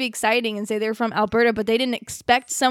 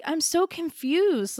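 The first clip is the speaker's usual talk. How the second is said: retold confusion; 5 semitones higher, much slower than usual. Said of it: "I was like".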